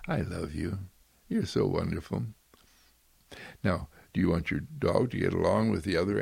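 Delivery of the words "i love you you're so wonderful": gentle. Shown as a demonstration. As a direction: say it tenderly to your pet. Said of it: "Just gently say".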